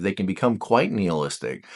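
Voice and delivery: ordinary delivery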